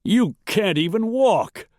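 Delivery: high, aghast disbelief; frightened, high-voiced protest; panicked gasp. A narrator's reading. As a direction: gasp it out, pitched well up. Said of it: "Wolford gasped".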